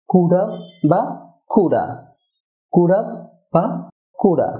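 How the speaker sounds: কুডা as one short word, "KU-da"; reduced linking. Shown as a demonstration. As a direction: shrink could have to কুডা. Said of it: "সাধারণত হয়ে থাকে". (কুড হ্যাভ সংক্ষেপে "কুডা")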